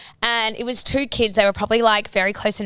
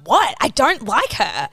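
slow, blunt kid's retort, lightly mimicked; imitated bratty child; slower than usual. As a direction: mimic a rude little kid, drawing it out. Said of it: "eight saying it like this".

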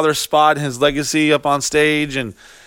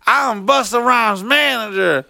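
haughty woman; 7 semitones higher, slower than usual. Retold or imitated. Lady claiming status.

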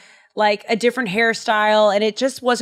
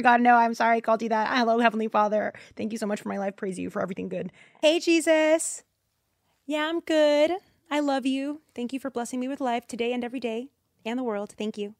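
much softer mock prayer to God; hushed prayer; 6 dB quieter, faster than usual. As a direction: murmur a humble prayer, barely voiced.

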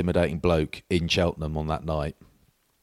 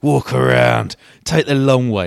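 louder, higher mock taunt; jokey heckle; 6 semitones higher, 9 dB louder, slower than usual. Powley repeating the taunt to the lads, loud and mocking. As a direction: goad them, playing hard man. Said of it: "He goes".

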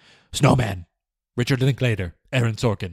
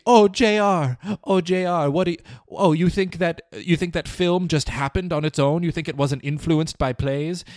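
high, whiny mock theater kid voice; 8 semitones higher than usual. J R imagines theater kids mocking him, high whiny mockery. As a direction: sneer it like a snooty theater kid. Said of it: "They're gonna say".

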